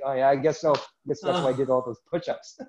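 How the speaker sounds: joking with a laugh in the voice; amused punchline about push-ups. Real, not acted. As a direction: tease it, amused.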